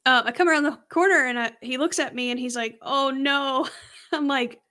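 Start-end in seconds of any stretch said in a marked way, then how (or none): 2.8-3.7 lightly put-on Hispanic accent. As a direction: attempt a mild Hispanic accent. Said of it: "Do you do the accent".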